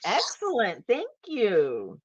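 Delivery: high, loud gushing oh oh oh; retold burst of delight, loud and high; excited thanks. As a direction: gush over it, delighted. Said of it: "I said".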